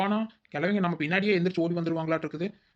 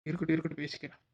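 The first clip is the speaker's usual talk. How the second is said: muttering aside; 6 dB quieter than usual. Acted.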